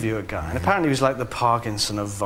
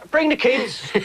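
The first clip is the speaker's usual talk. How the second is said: gushing fan; 12 semitones higher, slower than usual. Retold or imitated. Fan spotting the star in the street, high excited gush. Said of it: "they hold on to you".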